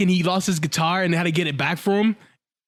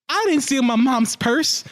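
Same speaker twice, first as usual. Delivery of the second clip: higher, drawn-out protest; protesting cartoon kid; 6 semitones higher, slower than usual. Fan retelling Timmy's denial to co-hosts, indignant kid voice. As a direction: play an indignant little boy.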